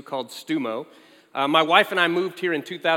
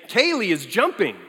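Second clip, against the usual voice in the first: put-on a light childlike sing-song, "Kaylee is jumping"; mock toddler; 3 dB louder than usual. Father imitating his daughter announcing herself, lightly childlike. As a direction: lightly play the proud little girl. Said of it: "announce everything she did in the third person".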